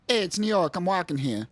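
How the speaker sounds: put-on quick New York accent, "Hey" punched high; a tough New York street guy. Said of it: "Maybe they were going for a New York accent?".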